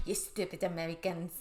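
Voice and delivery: mock-scornful French accent; accidental French accent. Host voicing the annoyed video lady, accidental French accent. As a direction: slip into a French accent as you scold. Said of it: "Well, she's not French".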